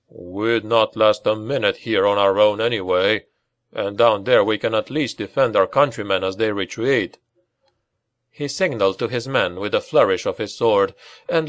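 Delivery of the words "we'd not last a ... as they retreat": calm resolve. Acted. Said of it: "nodded calmly".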